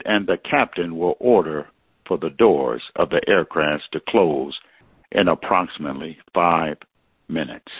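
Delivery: calm, measured boarding call; airport announcement. Retold or imitated. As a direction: read it like a gate agent. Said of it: "But I heard this".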